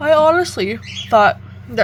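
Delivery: yawning through words. Talking about knitting with yarn cakes, yawning mid-sentence. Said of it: "excuse me, I was yawning".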